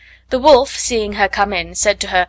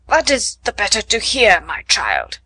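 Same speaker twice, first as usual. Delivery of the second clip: sly wolf. Acted. Wolf answers as grandmother.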